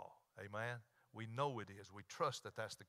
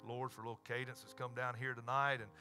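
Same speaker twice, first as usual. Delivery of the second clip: public prayer; 2 semitones higher, 5 dB louder than usual. Real, not acted. Leads closing prayer.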